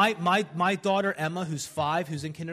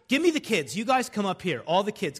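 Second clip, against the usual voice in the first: higher call to the back; yelling across the room; 3 semitones higher than usual. Real, not acted. Calling kids to the front.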